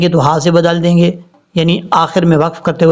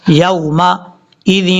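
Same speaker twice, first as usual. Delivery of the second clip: drawn-out chanted tajweed reading; slow Quran recitation; much slower than usual. Shown as a demonstration. Teacher reciting verse slowly for students. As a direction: recite slowly, stretching each sound.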